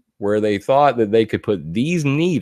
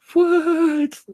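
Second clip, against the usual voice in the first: a sudden squeaky, much higher "what"; mock surprise. Reacting to the article, a high mock "what". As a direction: play the shocked disbelief, high.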